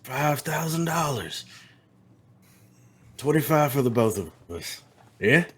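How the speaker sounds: a hint of a cold cowboy; menacing cowboy. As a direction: toy with him calmly. Tex keeps menacing.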